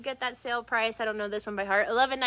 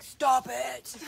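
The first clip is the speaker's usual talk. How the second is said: put-on a firm, slightly louder mom telling off her kids; 5 dB louder than usual. Shown as a demonstration. Host shows viewers her mom voice, firm and louder. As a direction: Stop it, like a mom reaching her limit. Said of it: "My mom voice is like".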